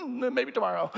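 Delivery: soft, laughing give-up; laughing shrug. Retold or imitated. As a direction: chuckle it off sheepishly. Israelites backing off again.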